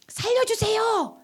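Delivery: high, stretched plea for help; earnest crying out. Acted. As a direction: call out desperately to the Lord. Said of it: "주님께 간절히 부르짖는 거예요". (높고 길게 간절히 부르짖기)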